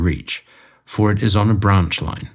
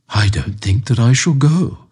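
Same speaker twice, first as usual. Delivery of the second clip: slow, higher, sulky refusal; Amberley; 4 semitones higher, slower than usual. A narrator's reading. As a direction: drag out a stubborn no. Client refuses to go.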